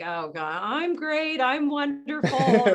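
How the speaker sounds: sarcastic, slow mock cheer on wonderful; eye-rolling mock affirmation. Mocking affirmations she used to scoff at, sarcastic. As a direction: roll your eyes while gushing. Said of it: "would roll my eyes at".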